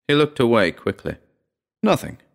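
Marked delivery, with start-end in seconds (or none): 1.8-2.2 brusque dismissal; curt, higher-pitched denial. A narrator's reading. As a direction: brush it off curtly. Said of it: "he said brusquely".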